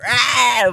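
high, blaring "ah"; short mock roar; imitated loud voice. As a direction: blurt a huge exaggerated "ah". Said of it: "I don't think he has, like, a".

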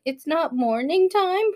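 lightly voiced puzzled little kid; a hint of a child's innocent asking; retold child. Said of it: "he's like".

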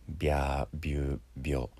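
"ビャービュービョ" with a small イ glide after B; 拗音の手本. Shown as a demonstration. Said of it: "この小さなイをつける". (「ビャービュービョ」を伸ばして手本)

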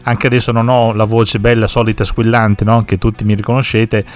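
stuffy nose from a cold; talking through a blocked nose; nasal voice. Real, not acted. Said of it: "ho ancora un po' di voce nasale". (voce nasale da raffreddore)

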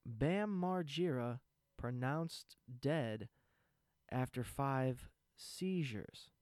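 slow, weighty headline reading; solemn news headline. Retold or imitated. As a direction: announce it like a grave headline. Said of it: "the headline of the article was".

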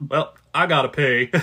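a hint of Forrest on "pee"; Forrest-style announcement. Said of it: "I say it like that".

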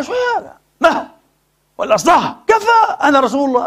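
high, sharp mock scolding; imagined stern rebuff of a woman who argues; mock indignant rebuke. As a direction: play a haughty rebuke to shut her down. Imagined Prophet rebuking arguing woman.

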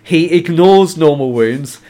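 measured, emphatic reading; book quote read aloud. A narrator's reading. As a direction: read the passage out with relish.

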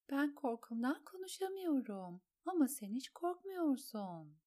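high, lilting encouragement; coaxing a child. A narrator's reading. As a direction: talk up a frightened little boy's courage. Alain coaxes frightened child.

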